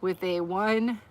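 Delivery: bouncing while talking; on a trampoline. Real, not acted. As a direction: voice jolting with each bounce. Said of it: "I'm still jumping in the, the trampoline?".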